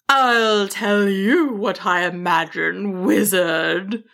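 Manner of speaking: slow, deliberate dragon comeback; sharp retort. A narrator's reading. Dragon answers back to the wizard, sharply. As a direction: retort with measured, understated menace. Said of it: "the dragon retorted sharply".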